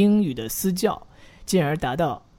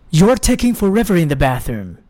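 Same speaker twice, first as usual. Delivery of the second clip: at normal speed; 2 semitones higher than usual. Shown as a demonstration. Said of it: "我们要加速了".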